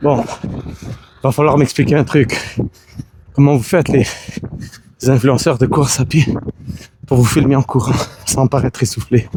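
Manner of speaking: very loud, panting, breathless delivery. Speaker talks to the camera while running, out of breath. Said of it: "je prends des grosses respirations".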